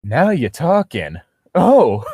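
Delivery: drawn-out Southern nurse voice; delighted Southern peach, rising on the exclamation; Southern accent. Acted. Nurse pleased the patient talks, Southern accent. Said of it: "the accent of a sexy southern peach".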